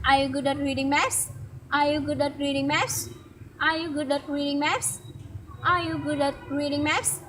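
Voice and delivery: rising question tune on "maps"; drilled question. Shown as a demonstration. Child teacher models the question tune for learners. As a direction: model the question intonation, ending up.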